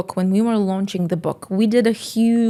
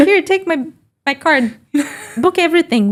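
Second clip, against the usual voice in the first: mock eager offer; 8 semitones higher than usual. Mocking Karen with a giddy high offer. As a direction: push the card across, overeager.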